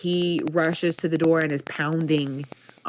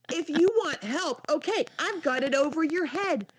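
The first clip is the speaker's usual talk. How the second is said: higher-pitched, mildly strained parental instructions; retold parent coaxing a stubborn child; exasperated parent; 9 semitones higher, 4 dB quieter than usual. Parent bargaining with tantruming child.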